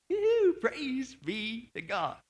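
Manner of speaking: drawn-out whoop of praise; imitating an exultant apostle; excited, joyful. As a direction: savor it slowly with joy. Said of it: "I'm kinda thinking he's excited. He's joyful".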